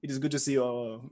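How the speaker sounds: hint of a dubious French accent; polite greeting in a lightly faked French accent; Francois. Wizard greeting chums before an awkward hug, loose French accent. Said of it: "in which case he says".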